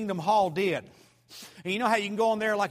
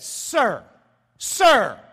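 mock yell; 4 semitones higher, 8 dB louder than usual. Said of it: "you're yelling at me".

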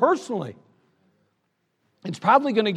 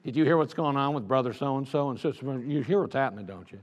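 gossiping woman; 6 semitones lower, 5 dB quieter than usual. Retold or imitated. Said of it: "and she gets".

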